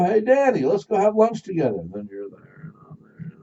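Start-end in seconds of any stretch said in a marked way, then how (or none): 0.0-1.8 inviting friend. Retold or imitated.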